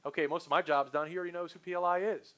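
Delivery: lightly acted relief; relieved salesperson. Salesperson thinking the job is done, mildly relieved. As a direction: sound as if the hard part is over. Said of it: "breathes a sigh of relief and goes".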